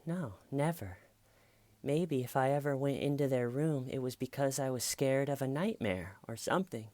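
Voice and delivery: high, hammed-up little-girl voice; melodramatic. Girl excusing visits to their room, high melodramatic imitation. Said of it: "gets this melodramatic voice whenever".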